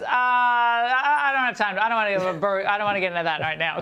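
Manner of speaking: fumbling politician parody, sped up at the end; mocking Biden's verbal crutches. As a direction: imitate Biden dodging, then hurry the last line. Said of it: "he always says".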